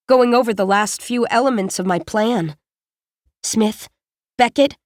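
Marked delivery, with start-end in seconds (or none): 3.4-4.8 a restrained summons to two people; mild call-out. A narrator's reading. Leader summoning Smith and Beckett, mildly called out. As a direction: call two names, lifting the second. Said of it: "I call out".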